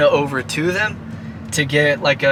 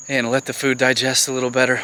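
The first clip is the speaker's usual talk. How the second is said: winded after walking; a little breathless from the climb; out of breath. Real, not acted. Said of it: "I'm already out of breath".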